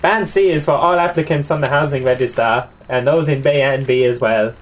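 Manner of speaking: attempted Mexican accent; amateur, put-on Mexican lilt. Shown as a demonstration. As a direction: read it out in a mock Mexican accent. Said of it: "you have to do Mexican for Band B now".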